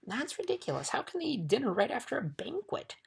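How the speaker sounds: high indignant royal outburst; shouting, outraged. A narrator's reading. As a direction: build to a long, loud cry. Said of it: "shouted the king".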